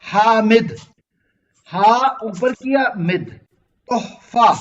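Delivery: हामिद said slowly, हा lifted and drawn out, then मिद; slow sounding-out of तोहफा for the class; slow demo. Shown as a demonstration. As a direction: spell out हामिद syllable by syllable, showing the tongue move. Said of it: "आप देखें जब".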